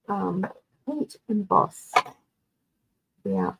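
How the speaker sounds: talking through hiccups. Real, not acted. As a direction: hiccup breaking the words. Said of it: "I've got the hiccups now".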